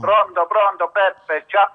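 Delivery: over the phone line. Real, not acted. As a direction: caller heard down a telephone. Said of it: "sento la tua voce al telefono".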